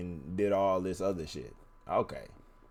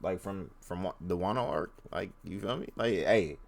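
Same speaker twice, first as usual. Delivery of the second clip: slight lisp from a retainer; talking around a retainer; wearing a retainer. Real, not acted. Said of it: "If y'all hear a lisp, bro, it's 'cause I have my retainers in".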